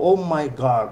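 "Oh my God" with a hard g, exclamation style; casual exclamation demo. Shown as a demonstration. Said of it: "তুমি গডকে বলো".

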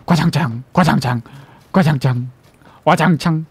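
mild spoken glass crash; crashing glass sound. Shown as a demonstration. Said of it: "지금은 과장창 이런 소리예요".

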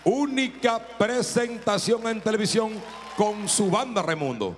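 stretched-out TV announcer intro; drawn-out presenter delivery; show announcer. Acted. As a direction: kick off the show like a hype host.

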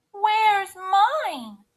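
high, loud squeal of a cub; Baby Bear. A narrator's reading. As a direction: squeal in little-bear alarm. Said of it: "squealed Baby Bear".

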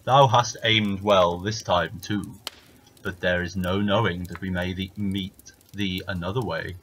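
grudging giant, heavy and slow. Acted. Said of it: "said the giant".

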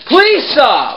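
loud plea with PLEASE stressed; begging again, shouted plea; pleading shout. Real, not acted. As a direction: lean on the word please while yelling. Begs him to stop smashing.

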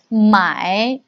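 买 in a slow dipping third tone; practicing tones. Shown as a demonstration. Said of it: "Third tone again".

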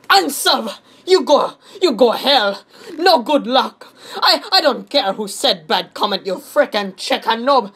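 high, loud, stilted put-on voice; mock angry commenter. Reading a noob-calling hate comment aloud, stilted mock anger. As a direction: punch out broken English in mock outrage.

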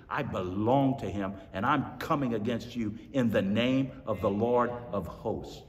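low, soft, steady answer; calm faith. Retold or imitated. David answering the giant, low and steady. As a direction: stand firm, quietly certain.

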